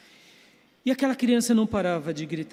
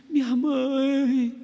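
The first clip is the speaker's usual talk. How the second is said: put-on child's lament; 6 semitones higher, 4 dB louder, much slower than usual. Crying boy voiced in story.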